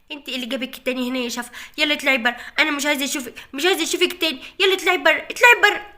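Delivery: put-on girl's voice rising to a loud yell; angry child. Janna ordering Shafa out of the house, building to a yell.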